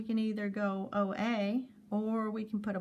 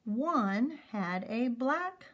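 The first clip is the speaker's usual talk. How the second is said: slow reading; 2 semitones higher, much slower than usual. Shown as a demonstration. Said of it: "Let's try to read that whole row".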